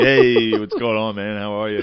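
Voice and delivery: butter up the counter staff; sweet-talking. Retold or imitated. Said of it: "trying to sweet talk the people".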